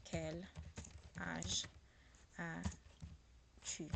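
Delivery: Quel, âge and as-tu each said apart with pauses, as-tu fading to a whisper; slow broken-up demo. Shown as a demonstration. Teacher breaks the question apart word by word, slow and fading. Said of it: "it will be like this".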